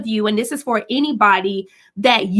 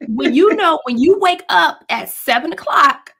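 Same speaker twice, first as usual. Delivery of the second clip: lecturing mom; 4 semitones higher than usual. Retold or imitated. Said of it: "I be like".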